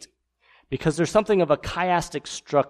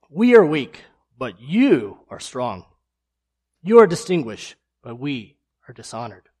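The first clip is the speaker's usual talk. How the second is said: sarcastic reading; 6 dB louder than usual. Shown as a demonstration. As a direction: punch each contrast sarcastically. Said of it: "Let me read it in that way".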